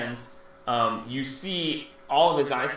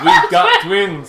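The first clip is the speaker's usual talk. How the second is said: high, slow, loud copy of the words; creature mimicking; 11 dB louder, much slower than usual. Baby creature repeating the player's words, high and slow. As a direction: echo it back high and drawn out. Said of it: "mimicry of player's line".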